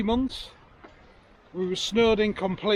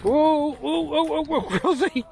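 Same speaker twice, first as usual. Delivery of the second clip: excited calling; 9 semitones higher, 3 dB louder, slower than usual. Real, not acted. Calling dog through water.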